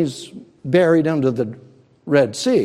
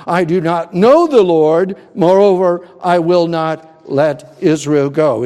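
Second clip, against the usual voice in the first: defiant Pharaoh; 4 dB louder than usual. Acted. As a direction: bellow the tyrant's refusal to God. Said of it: "Pharaoh said".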